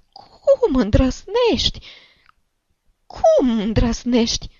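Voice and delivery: slow, high, squealed outrage; old woman shrieking in a thin high voice; shrill scream. A narrator's reading. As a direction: screech it, stretching the words. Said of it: "țipă deodată Șciuchina cu glas pițigăiat".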